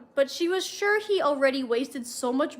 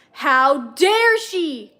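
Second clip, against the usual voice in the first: growled; 8 dB louder, much slower than usual. A narrator's reading. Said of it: "Rizzler growled".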